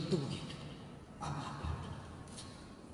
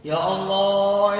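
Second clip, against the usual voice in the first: moved; 6 dB louder, much slower than usual. Acted. Rich man moved by the tears.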